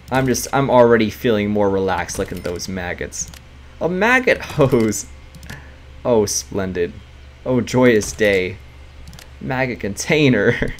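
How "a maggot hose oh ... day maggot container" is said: slow, hammed-up delight; drawn-out sarcastic rapture; mock delight. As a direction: savour each horror like a treat. Mock delight at maggot furniture.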